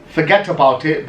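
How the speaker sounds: "Forget about it" with the T's pronounced; T's sounded. Retold or imitated. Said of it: "get rid of the T's".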